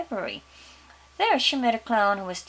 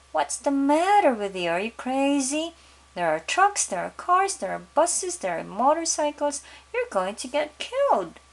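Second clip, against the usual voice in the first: scolding father; 6 semitones higher, 4 dB louder than usual. Acted. Father scolds daughter on road.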